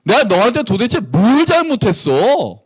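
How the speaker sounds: what did I ever do to you, frustrated; exasperated God. Acted. God scolding his people Israel, hurt and indignant. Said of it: "하나님이 이스라엘 백성한테 얘기하는 거".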